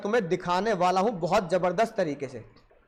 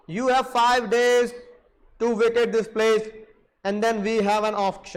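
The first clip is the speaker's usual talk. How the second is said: stern banker; much slower than usual. Retold or imitated. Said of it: "uncle जी ने बोला".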